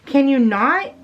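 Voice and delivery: acted annoyed complaint; mock exasperation. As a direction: play the fed-up fellow rider. Voices annoyed rider's reaction.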